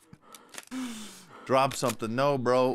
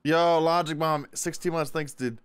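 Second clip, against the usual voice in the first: panting after running; catching breath between words; 3 semitones higher than usual. Real, not acted. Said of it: "Sorry, I'm just catching my breath".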